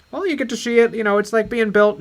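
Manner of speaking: mock director explaining his plot; George Lucas. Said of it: "George is like".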